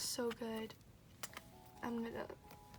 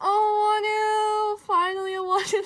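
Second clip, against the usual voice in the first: loud, high squeal of joy; excited squeal; 8 semitones higher, 13 dB louder, slower than usual. Real, not acted. Fan pulling the card she wanted, squealing. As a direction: squeal like you just got the card you wanted.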